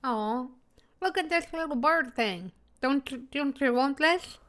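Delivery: talking with a wet, drooly mouth; drooling mouth. Acted. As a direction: speak through too much saliva. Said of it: "I also don't want your voice".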